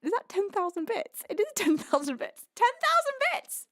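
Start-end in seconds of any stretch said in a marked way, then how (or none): 2.6-3.7 high, incredulous squeal; astonished. Real, not acted. Streamer seeing a huge donation, astonished. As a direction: let the pitch leap in disbelief.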